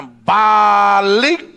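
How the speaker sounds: hugely drawn-out command; commanding call. Acted. God ordering the prophet to turn back, commanding call. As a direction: stretch the word out like a proclamation.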